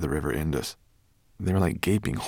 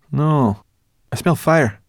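higher and louder, firm; insistent brownie voice; 7 semitones higher, 8 dB louder, slower than usual. A narrator's reading. Sorrel insists.

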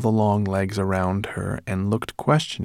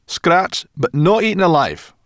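put-on wry girl voice; 10 semitones higher, 7 dB louder than usual. A narrator's reading. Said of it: "Sorrel pointed out".

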